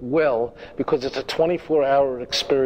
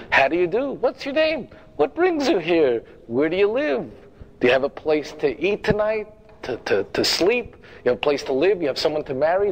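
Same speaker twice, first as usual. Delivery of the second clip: mock overeager greeter. Mimics overeager congregation greeters.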